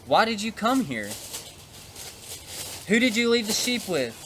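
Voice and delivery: an older brother's heated rebuke, lightly acted; angered big brother. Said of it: "Eliab heard this and was angered".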